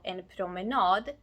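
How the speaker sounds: "promenad" with the final "nad" stressed; "promenad" leaning hard on its last syllable; stress on suffix. Shown as a demonstration. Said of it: "because suffix nad is stressed".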